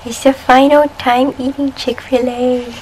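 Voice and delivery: loud, slow grand proclamation; dramatic announcement. Acted. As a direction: declare it like the end of an era. Dramatic farewell repeated.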